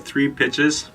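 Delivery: normal talking voice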